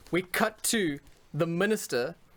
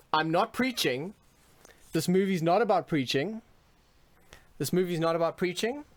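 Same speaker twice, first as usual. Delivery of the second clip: rising impassioned oratory; 4 semitones higher than usual. Pretend. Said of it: "In your best preacher voice".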